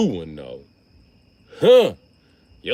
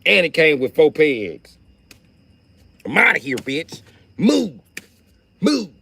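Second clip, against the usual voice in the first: yelling move; 6 semitones higher, 3 dB louder than usual. Retold or imitated. Riding bike out of store.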